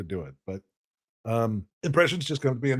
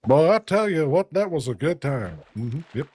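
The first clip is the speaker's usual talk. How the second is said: Hank Hill. Retold or imitated. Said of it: "Hank Hill impression".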